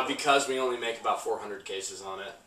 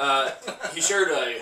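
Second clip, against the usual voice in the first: laughing through the words; chuckling while starting the story; 4 semitones higher, 5 dB louder, slower than usual. Real, not acted. Laughing at his own story.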